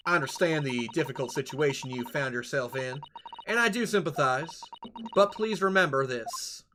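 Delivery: a hint of a calm, firm judge; lightly voiced stern reminder; lightly voiced stern woman. Pavlova warns sailor against lying, stern. Voicing game characters.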